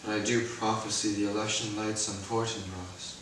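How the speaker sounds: dying, coughing and fading; bleeding out. Acted. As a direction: let life drain out of each word. Hamlet dies, coughing, fading.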